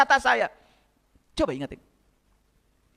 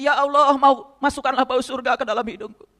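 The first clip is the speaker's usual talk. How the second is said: prayer; 4 semitones lower than usual. Shown as a demonstration. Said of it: "Sedot lagi".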